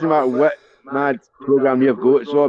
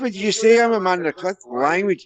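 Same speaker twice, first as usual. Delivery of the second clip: high, scandalised cry of a priest; pitched-up priestly shock; 6 semitones higher than usual. Acted. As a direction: play the outraged priest.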